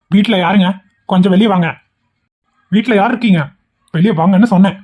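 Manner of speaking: insistent call at the gate. Acted. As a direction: call for someone to come outside. Calling out at a house gate.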